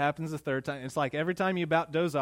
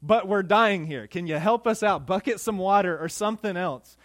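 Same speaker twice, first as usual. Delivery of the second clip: louder, higher pleading as the frightened disciples; mock terrified plea; 3 semitones higher, 6 dB louder than usual. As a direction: play the disciples begging in the storm. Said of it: "They're terrified. They're going".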